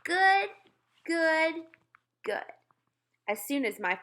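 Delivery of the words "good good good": put-on high toddler voice. Toddler repeating praise.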